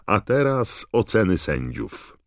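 high, loud announcer's call; Bagman shouting. A narrator's reading. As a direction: announce it to a packed stadium. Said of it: "krzyczał Bagman".

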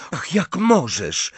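high, slow reproach; indignant snarl. A narrator's reading. Hermione rebuking Ron over Tonks, indignant snarl. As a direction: scold with drawn-out, high-pitched indignation. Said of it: "warknęła Hermiona".

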